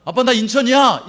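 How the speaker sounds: bright phone announcement to dad; child calling dad. Acted. Child phoning dad to announce arrival, cheerful. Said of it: "그럼 놀래, 안 놀래요?".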